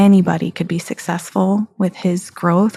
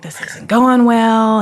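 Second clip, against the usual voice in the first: mopey Eeyore; 3 semitones higher, 4 dB louder, slower than usual. Retold or imitated. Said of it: "kinda Eeyoreing his way through lunch".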